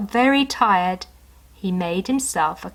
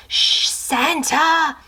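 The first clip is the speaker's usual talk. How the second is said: higher, slow hushed call; dog's hush; 7 semitones higher, much slower than usual. Acted. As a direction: hush him kindly. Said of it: "whispered the family's dog".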